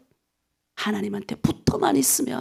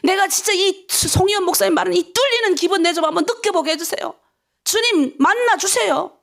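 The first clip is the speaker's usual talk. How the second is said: higher-pitched, insistent petition; pleading dawn prayer; 5 semitones higher than usual. Shown as a demonstration. Preacher models a dawn prayer to meet God, urgent pleading. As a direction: beg God earnestly. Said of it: "새벽 기도하죠, 하나님".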